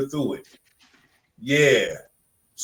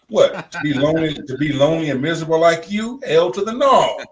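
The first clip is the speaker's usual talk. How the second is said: incredulous retort that climbs to an emphatic finish; indignant comeback; 3 semitones higher, 4 dB louder than usual. Acted. Talking back to commenters who urge divorce, indignant.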